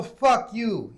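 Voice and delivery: high-pitched indignant dismissal; retold angry retort. Patient cursing at the nurse, retold indignation. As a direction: act out telling someone off.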